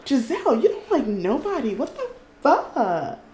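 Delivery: high-pitched disbelief, dragging out the end; incredulous. Real, not acted. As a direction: react in astonishment at the gossip. Shocked at Giselle liking Simon.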